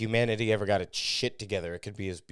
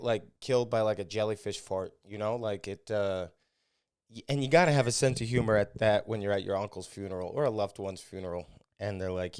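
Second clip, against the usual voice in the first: ordinary delivery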